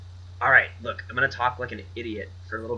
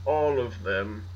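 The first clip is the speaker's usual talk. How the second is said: loud bragging new money; 3 semitones higher, slower than usual. Acted. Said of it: "we're very wealthy".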